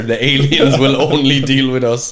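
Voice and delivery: hammed-up pride; mock boast. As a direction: crow about it grandly. Boasting about being leaders.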